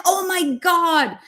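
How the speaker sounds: high, slow, stretched-out amazement; excited gasp. Retold or imitated. Hairdresser told she's a spiritual teacher, slow amazed gush. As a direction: mimic the hairdresser gushing at the news. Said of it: "And he's like".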